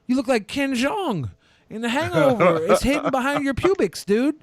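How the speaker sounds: mock disgust. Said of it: "You're like".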